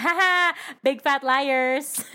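high, loud laughing jeer; laughing mockery. Real, not acted. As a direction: laugh it out, slow on big fat liars. Mocking their own broken promise.

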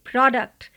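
प्रोडक्ट said with a short open o, pro-duct; careful teacher model of प्रोडक्ट; correct product. Shown as a demonstration. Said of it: "इसको सही से पढ़ने का तरीका है प्रोडक्ट".

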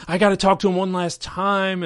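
dying Hogan. Retold or imitated. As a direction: overact a man begging for his family. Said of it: "he's like".

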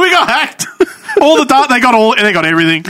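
quoting the company through laughter; giggling while imitating a press statement; laughing mock announcement. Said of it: "Medicare's like".

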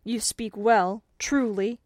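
loud, slow, indignant retort. A narrator's reading. Indignant godson answers his godfather, loud and slow. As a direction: draw it out pointedly, voice up. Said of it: "cried the indignant godson".

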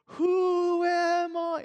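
drawn-out, high anguished shout; frustrated yell. Retold or imitated. Hero on a rooftop yelling at the world, drawn-out anguished shout. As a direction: scream it at the sky, lost. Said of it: "he just starts yelling".

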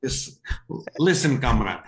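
put-on Russian accent; mock Russian voice. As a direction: play a stock Russian comrade. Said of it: "do a Russian voice".

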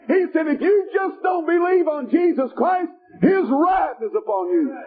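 forceful revival-preacher delivery; driving sermon with punched key words; fervent preaching. Real, not acted. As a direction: preach it hard to the congregation. Preaches to congregation.

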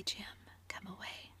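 soft pleading whisper. Acted. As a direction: drop to a hush to pull him away. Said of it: "she whispered".

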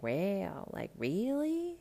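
rising high disbelief on really; retold shocked reaction; mock surprise. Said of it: "I was like".

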